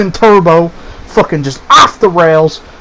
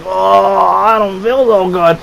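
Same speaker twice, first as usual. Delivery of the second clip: dazed groaning; 2 semitones higher, slower than usual. Retold or imitated. Dazed reply after branch injury.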